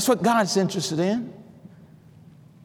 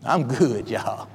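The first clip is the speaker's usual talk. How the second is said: quiet aside; 10 semitones lower, 6 dB quieter, much slower than usual. Real, not acted. Quiet aside after a climax.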